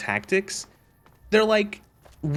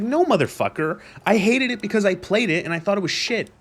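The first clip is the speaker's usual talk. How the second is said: higher, exasperated comeback; indignant retort; 5 semitones higher than usual. Real, not acted. Gamer answers claim he just decided to hate it, indignant. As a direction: push back hard, pitch raised.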